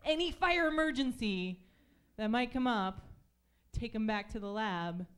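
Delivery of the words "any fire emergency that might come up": bossy executive. Retold or imitated. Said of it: "they're like".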